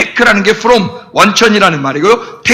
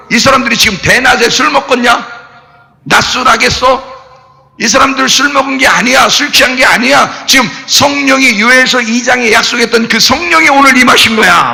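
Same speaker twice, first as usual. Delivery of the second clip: Peter preaching. Retold or imitated. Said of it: "베드로가 일어나가지고 뭐라 그래".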